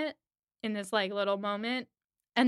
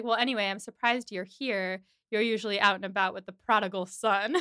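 disdainful. Retold or imitated. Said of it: "such disdain dripping off of his voice".

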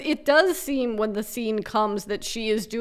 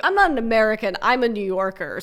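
annoying New Yorker; faster than usual. Retold or imitated. Podcaster mocks Carrie to cohost: annoying New Yorker. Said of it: "the annoying New Yorker thing".

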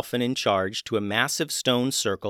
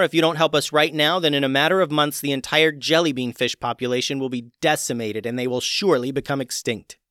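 loud, high urgent warning; urgent pleading; 4 semitones higher, 5 dB louder than usual. Acted. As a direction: plead the danger, louder. Evie urgently warns dolphin court.

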